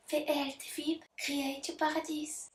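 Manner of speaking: put-on soft English in a heavy French accent; thick French accent. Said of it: "J'ai un accent vraiment minable". (accent français très marqué)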